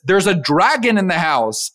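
lightly acted, emphatic kid; story kid. Kid tells dad about the dragon, emphatic.

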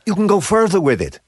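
put-on animated French-accented English. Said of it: "then the guy was like".

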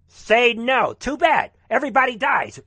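loud, high rallying shout; defiant exhortation. Real, not acted. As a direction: punch out each short phrase at high volume. Exhorting the Guard to refuse.

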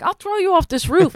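high-pitched mock threat; acted-out, heated warning; retold hood mode. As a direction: imitate a tough friend threatening someone. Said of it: "she went into hood mode".

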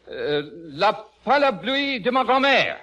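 American soldier tries classroom French on a stranger; halting schoolboy French. Pretend. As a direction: recite the only French phrase you remember. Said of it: "well, say that".

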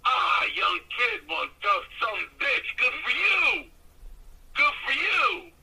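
drawn-out opening rising to high cheers; acted high-pitched congratulation; hearty praise, imitated. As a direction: imitate an old hand crowing approval, pitched high. Acts out Doctor D praising him.

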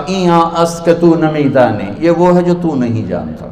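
understated lofty disdain; arrogant. Acted. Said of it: "تو انہوں نے بڑے تکبر سے کہا".

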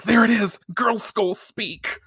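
high start sinking into a slow whisper; acted awestruck realisation; shocked aside. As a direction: mimic stunned discovery, hushed at the end.

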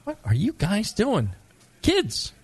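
mock shout at the kids, pitch climbing high; scolding bartender. Barman scolding foreign drinkers, high mock shout. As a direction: play a grumpy barman yelling at youngsters.

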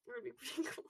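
unvoiced conspiratorial whisper. Real, not acted. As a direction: whisper it like a secret. Whispered aside.

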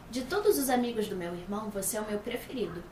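sweet confession. Acted. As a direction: say it shyly, like a crush.

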